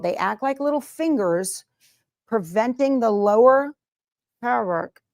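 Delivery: talking around pins in mouth. Real, not acted. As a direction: speak with pins held between lips. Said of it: "Sorry, I put a pin in my mouth".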